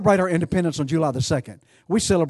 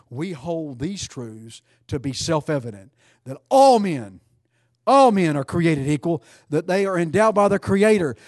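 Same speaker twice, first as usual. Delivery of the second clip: solemn recitation. Acted. Preacher reciting famous words to congregation, swelling. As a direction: recite it with building reverence.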